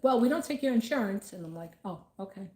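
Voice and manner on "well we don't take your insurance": mock receptionist. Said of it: "they're like".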